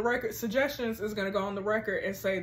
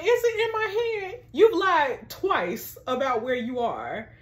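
tearful quote; 4 semitones higher, slower than usual. Acted. Reading Joni's hurt quote.

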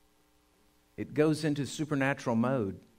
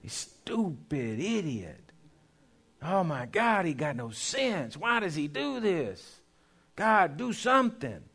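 exasperated complaint; 2 semitones higher, slower than usual. Retold or imitated. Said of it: "we say".

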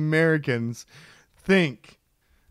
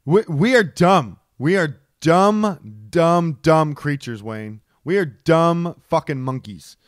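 exasperated; 5 dB louder, slower than usual. Real, not acted. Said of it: "It's 'cause I'm pissed".

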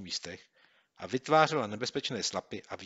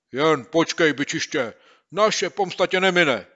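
much louder and higher, slow, vowing revenge; threatening shout; 8 semitones higher, 13 dB louder, slower than usual. Acted. Boy shaking his fist at the bully, threatening. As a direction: threaten him with fury. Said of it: "zahrozil pěstí Kopyto".

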